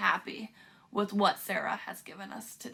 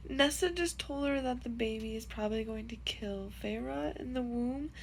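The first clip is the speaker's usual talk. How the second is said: teary; 2 semitones higher, 3 dB quieter than usual. Real, not acted. Reader tells viewers about a sad scene while crying. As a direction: let the tears break through the words. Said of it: "I literally have tears in my eyes".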